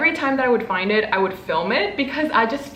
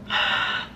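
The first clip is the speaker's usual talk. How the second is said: sharp intake of breath; delighted gasp; 4 dB quieter than usual. Real, not acted. Sees cute stickers.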